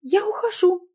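high, loud demand to be let go; girl's demand. Acted. Girl demanding her husband let her go. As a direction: insist in a high young woman's voice.

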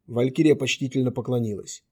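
plain reading voice

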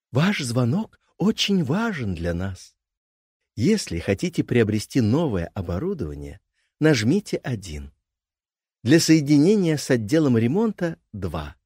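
phone menu voice. Acted. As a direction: read it like an automated hotline. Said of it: "говорю с записью".

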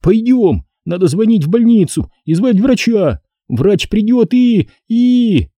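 high, urgent yell trailing off; panic, then falter; boy yelling in panic. A narrator's reading. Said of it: "начал орать благим матом". (мальчик орёт в панике)

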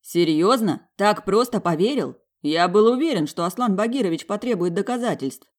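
loud, high amazed questions. A narrator's reading. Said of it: "поражался моему рассказу".

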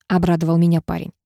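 plain reading voice

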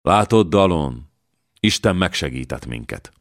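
subdued sad reply; sadly. Acted. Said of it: "szomorúan így szólt".

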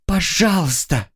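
high begging please; high, desperate begging; pleading cry. Acted. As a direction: plead for mercy. Girl begs captor.

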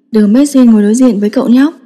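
plain reading voice

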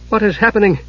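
high-pitched alarmed question; cry of terror. A narrator's reading. Palin sees the staff's light die, terrified cry. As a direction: cry out in acted dread. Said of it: "he cried in terror".

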